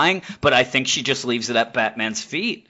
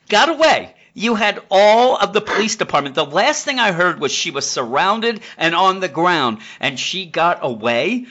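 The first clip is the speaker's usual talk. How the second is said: incredulous outrage; 6 semitones higher than usual. Retold or imitated. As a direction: explode in disbelief, then drag it out. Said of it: "And he's like".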